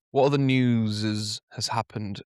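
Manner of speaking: talking while choking on water; strained, as if water went down wrong. Real, not acted. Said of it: "Sorry, I'm choking on water".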